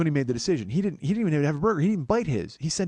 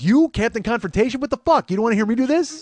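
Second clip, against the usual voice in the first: mock outraged shout; 10 semitones higher, 8 dB louder than usual. Friend mocking his avoidance of conflict.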